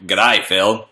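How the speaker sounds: lightly imitated Australian greeting; Australian accent. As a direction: mimic an Australian fan's g'day. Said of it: "No one at meetups was like".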